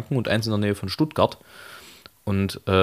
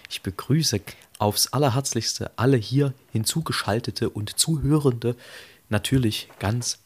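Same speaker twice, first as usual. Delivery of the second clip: podcast host opening; slower than usual. Acted. Slow formal show opening.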